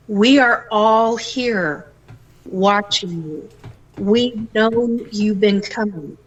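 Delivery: slow, hushed voice of hidden beings calling from the trees; drawn-out words from unseen watchers, a little eerie; unseen watchers speaking. Retold or imitated. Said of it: "and I'm being told".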